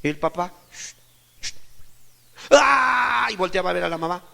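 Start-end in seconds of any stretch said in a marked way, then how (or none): 0.7-1.5 short, sharp "shh" of a parent; imitated hushing. Father hushing the crying child. 2.5-3.3 loud, high bawling "aah"; imitated child's wail. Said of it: "y gritaba más".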